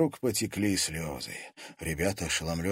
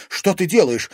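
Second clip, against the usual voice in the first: higher, loud alarmed cry; exclaiming; 9 semitones higher, 9 dB louder than usual. Acted. Katerina crying out to the sorcerer, alarmed. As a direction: call out in shock. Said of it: "воскликнула Катерина".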